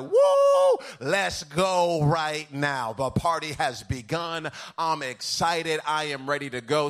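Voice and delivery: woo, loud and high, then slow and sung; bursting awake, fired up; hyped morning self. Retold or imitated. Preacher imitating his fired-up morning self. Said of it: "I'm like".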